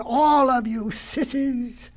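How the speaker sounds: high, slow, stretched-out taunt; taunting cry. Acted. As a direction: drag out the jeer at everyone. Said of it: "cried the hare".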